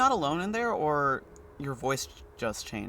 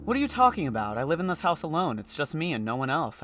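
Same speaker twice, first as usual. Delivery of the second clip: furious and baffled, throw him out; angry man; 2 semitones higher, 3 dB louder than usual. Acted. Man behind the door angrily telling the doctor to get out.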